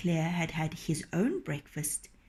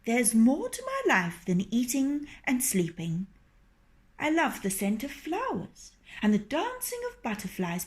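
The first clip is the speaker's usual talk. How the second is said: flattering fox; 4 semitones higher than usual. Acted.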